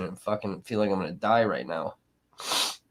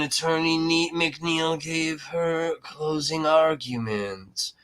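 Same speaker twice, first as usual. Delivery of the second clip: mock lawyer; 4 semitones higher, slower than usual. Mocking the lawyer's dramatic delivery.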